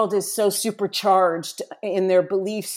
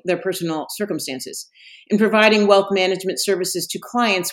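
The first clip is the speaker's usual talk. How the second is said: brisk, even disclaimer read; fast legal disclaimer. Acted. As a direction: rattle off the legal fine print. Reads the podcast legal disclaimer.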